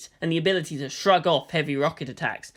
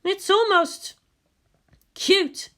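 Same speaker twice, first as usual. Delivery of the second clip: unimpressed; 13 semitones higher, much slower than usual. Acted. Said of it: "wasn't much impressed".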